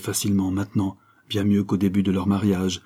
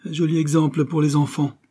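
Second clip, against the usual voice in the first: grumbled sarcasm; 8 semitones higher, 3 dB louder than usual. A narrator's reading. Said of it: "grogna subitement monsieur Higginbotham".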